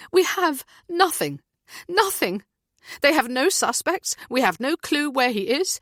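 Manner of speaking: falling apart with fear for her son; helpless frantic cry; desperate panic. A narrator's reading. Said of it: "breath coming in short gasps".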